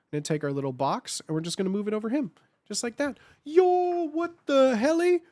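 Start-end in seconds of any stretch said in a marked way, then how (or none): 3.4-5.2 high, loud excited outburst; excited yell. Real, not acted. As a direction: squeal it out at a sub alert. Reacting to sub alerts.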